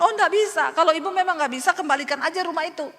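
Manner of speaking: high and loud, snapping no; the landlord rejects her plea, sharp and loud; angry refusal. Retold or imitated. Pak Haji refuses the half payment, high-pitched and angry. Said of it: "Pak Hajinya marah-marah".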